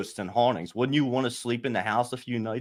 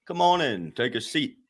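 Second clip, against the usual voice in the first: smart-ass host. Retold or imitated. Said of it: "smart ass kind of, like, way of saying things".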